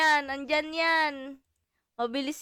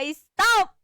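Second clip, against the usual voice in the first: loud stop; 5 semitones higher, 12 dB louder than usual. Shown as a demonstration. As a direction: bark out Stop loud and high. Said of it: "sabihin mo". (malakas at mataas na Stop)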